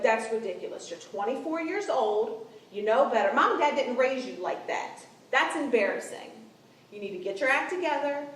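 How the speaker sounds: exasperated big-sister telling-off, punchy and loud on key words; tough-love scolding. Shown as a demonstration. Older sister sets her younger sister straight, tough-love scolding. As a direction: scold a grown sibling with love underneath. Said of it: "I need to say it like this".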